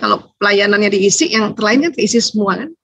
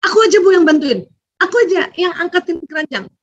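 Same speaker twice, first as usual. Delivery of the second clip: put-on eager child; 6 semitones higher than usual. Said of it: "dia selalu ingin sigap".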